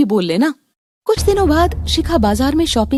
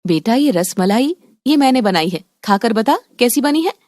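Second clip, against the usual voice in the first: lightly voiced proud mother. Mother urges daughter to taste her rasmalai, lightly voiced fond mother. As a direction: offer your sweet dish like a proud mother.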